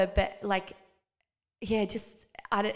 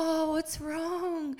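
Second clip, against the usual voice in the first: imitating worried dad; 9 semitones higher, much slower than usual. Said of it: "And he's like".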